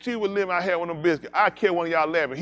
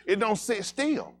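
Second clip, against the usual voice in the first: drawn out slowly for effect; slow emphasis; 7 semitones higher, slower than usual. Acted. Comic describing syrup, slow and drawn out. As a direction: stretch each word.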